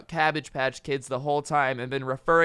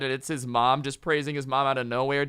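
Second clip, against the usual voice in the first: plain reading voice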